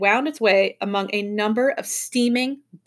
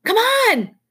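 high, loud eager shout; excited rallying call; enthusiastic; 13 semitones higher, 6 dB louder than usual. A narrator's reading. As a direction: shout it eagerly to get them moving. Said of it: "he said enthusiastically".

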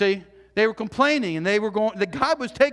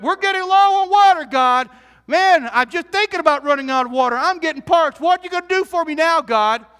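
louder, higher mock whining at God; mock complaint to God, pitched up; whiny complaining Israelites; 4 semitones higher, 5 dB louder than usual. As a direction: whine like a thirsty crowd.

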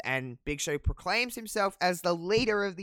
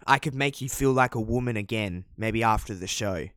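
creepy come-on; 5 semitones lower, 8 dB louder than usual. Retold or imitated. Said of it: "so you have Creepy Paul".

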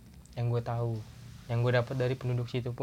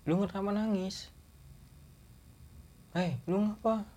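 urgent question; 8 semitones higher than usual. Retold or imitated. Asking crying friend in forest.

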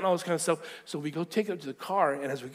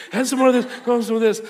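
high, very loud gleeful insistence; carried-away shout of generosity; excited urging; 8 semitones higher, 12 dB louder, faster than usual. Retold or imitated. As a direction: push more treats on him loudly. Gleefully dumping treats in cart.

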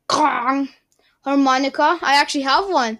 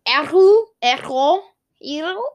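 mock echo; 4 semitones higher, 4 dB louder than usual. Shown as a demonstration. Vlogger plays with the word, mock echo fading. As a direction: echo repeated, fading away. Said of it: "saying echo like an echo".

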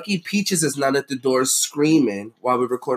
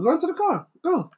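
high, mocking Boston accent; exaggerated Boston impression; 13 semitones higher than usual. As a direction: tease with a high-pitched Boston "car". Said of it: "Don't make fun of my shitty Boston accent".

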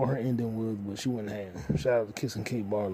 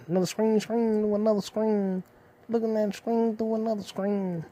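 mock amazed; 9 semitones higher, 4 dB louder than usual. Vlogger marvelling at his reflection, high awed voice. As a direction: marvel at it like a kid.

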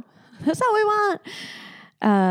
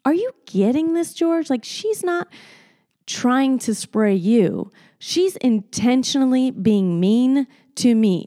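indignant; 4 semitones higher than usual. Retold or imitated. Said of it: "I was like".

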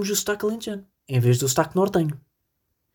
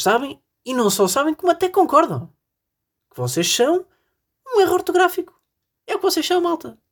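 much higher mocking singsong; mock teasing; 12 semitones higher than usual. Host ribbing Évora listeners in a high mocking voice. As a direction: tease them in a high put-on voice.

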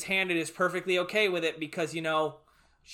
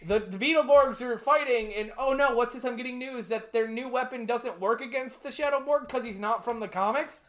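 lightly voiced reporter, pitched up; news reporter act; 6 semitones higher than usual. Reporter breaking news of the failed weapon, lightly acted bulletin.

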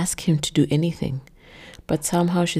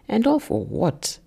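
spitting it out; 7 semitones higher than usual. A narrator's reading. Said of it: "he all but spits out".

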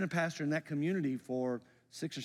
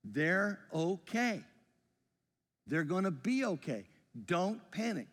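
calm reassurance; slower than usual. Retold or imitated. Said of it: "I have said these words".

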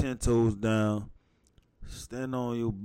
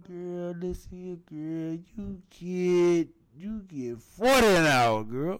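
put-on Jamaican accent; 5 semitones higher, slower than usual. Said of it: "The Jamaican accent".

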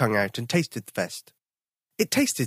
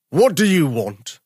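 slow, louder growling daddy bear demand; a big bear roars at the intruder; 3 semitones higher, 6 dB louder than usual. Acted. Daddy bear to Tom, slow loud roar. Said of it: "one of them roared".

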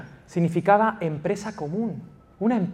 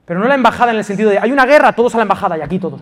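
mock panic rush; 3 semitones higher, 6 dB louder, much faster than usual. Parodying a rush to the embassy.

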